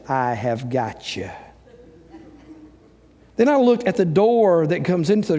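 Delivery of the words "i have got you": soft, low gotcha; quiet triumph. Retold or imitated. Homeowner finding the mouse hole, soft triumphant gotcha. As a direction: whisper it like you caught them.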